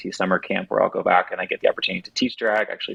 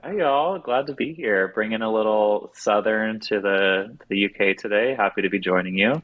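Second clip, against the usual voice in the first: Southern American accent; 2 semitones higher than usual. Real, not acted. Guest from Atlanta greets UK hosts, Southern accent. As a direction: lay on a little friendly Southern accent. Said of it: "That voice is so, oh, it's, it's beautiful".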